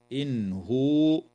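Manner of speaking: إن هو with the noon of إن sounded clearly before the ha; no nasal merge in إن هو; إن هو with a crisp noon. Shown as a demonstration. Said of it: "إظهار حلقي للنون الساكنة عند الهاء".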